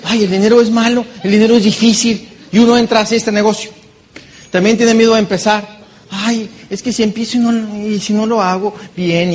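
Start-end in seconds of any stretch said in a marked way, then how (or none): 0.0-2.3 whiny complaint. Retold or imitated. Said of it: "entonces dice". 6.1-9.3 mock fearful whine. Imitating someone afraid to start.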